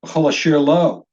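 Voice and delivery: v'chol asher lo run together, landing on LO; stress on LO. Shown as a demonstration. Teacher repeats the phrase, stressing lo at the end of v'chol asher lo. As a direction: hit the final lo of v'chol asher lo. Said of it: "it's got the stress on the word lo".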